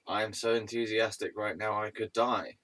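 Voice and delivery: deadpan mock enthusiasm; dry sarcasm, no excitement in it; sarcastic. Real, not acted. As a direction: claim excitement in an unexcited, everyday voice. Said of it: "That was sarcasm".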